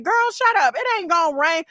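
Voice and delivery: high-pitched scoffing comeback; lightly acted dismissal; dismissive retort. Husbands dismiss worried wives.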